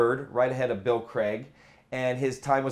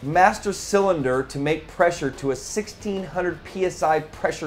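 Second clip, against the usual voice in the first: running out of breath; breathless from the long list; 3 semitones higher than usual. Real, not acted. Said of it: "I'm running out of breath here".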